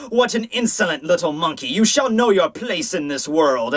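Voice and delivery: haughty villain voice, slow at the end; creepy officer. Acted. Officer putting an upstart boy in his place, creepy villain voice. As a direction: scorn a child, drawing out the threat. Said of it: "strikes the creepy grin".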